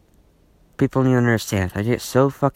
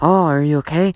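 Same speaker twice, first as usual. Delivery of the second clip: mock concern; 4 semitones higher than usual. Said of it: "people who've been asking me".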